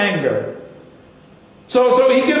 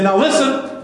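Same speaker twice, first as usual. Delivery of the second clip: Charles Stanley; 4 semitones higher than usual. Retold or imitated. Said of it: "He'll say".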